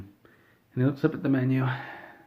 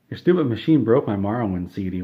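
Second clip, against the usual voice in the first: louder, imitated indignant complaint; mock angry complaint; 5 dB louder than usual. Customer blaming staff for his broken disc, mock indignant. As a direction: blame them loudly, as a retold outburst.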